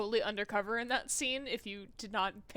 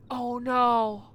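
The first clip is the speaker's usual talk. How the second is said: real shock; 6 dB louder, slower than usual. Real, not acted. Shocked at the murder.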